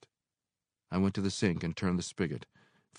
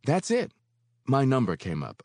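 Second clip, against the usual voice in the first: thankfully; 8 semitones higher, 6 dB louder than usual. Acted. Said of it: "I said thankfully".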